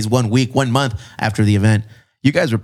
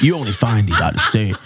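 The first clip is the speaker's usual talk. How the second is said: put-on bro voice; 3 semitones lower than usual. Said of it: "I like doing that voice".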